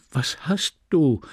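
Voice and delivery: dragged out, bewildered repeat. Acted. Husband repeats his bewildered question to his angry wife. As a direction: ask again, lost and slow. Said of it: "stammelte er verdattert".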